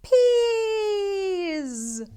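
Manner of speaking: high, loud shocked cry. Acted. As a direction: shout the reveal in shock. Shocked reveal.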